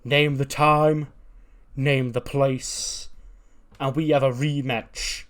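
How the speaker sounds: angry wrestler calling out his rival; angry challenge. Retold or imitated. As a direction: bellow the challenge at him, slowing down. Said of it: "He's angry".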